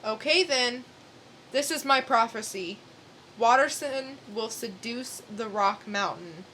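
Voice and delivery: grave, portentous oracle voice; solemn prophetess. Acted. Prophetess solemnly foretelling to the hero. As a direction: pronounce the prophecy like doom. Dramatic reading, Cassandra prophecy.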